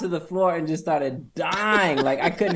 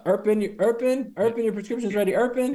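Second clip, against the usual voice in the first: higher-pitched mock pharmacy announcement; pharmacy pickup call; 8 semitones higher than usual. Pharmacy staff calling a customer to the counter, mock call-out. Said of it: "they be like".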